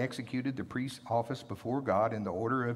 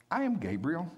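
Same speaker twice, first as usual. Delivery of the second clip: indignant angel; 6 semitones higher than usual. Acted. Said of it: "his attitude is completely different".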